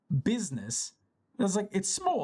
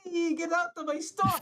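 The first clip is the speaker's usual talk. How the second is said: higher cockney goblin yelling at a customer; goblin shopkeeper; 11 semitones higher than usual. Pretend. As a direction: shoo the lady out like a cranky goblin shopkeeper. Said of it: "or they said".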